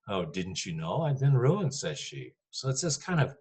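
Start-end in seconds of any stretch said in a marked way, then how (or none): 0.1-1.7 sarcastic. Shown as a demonstration. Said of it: "this is almost kind of a sarcasm".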